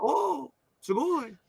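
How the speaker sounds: high, slow, airy gushing; mock starry-eyed awe. Teasing Nami by mimicking awed fan, high and slow. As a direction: swoon over it like a wide-eyed fan.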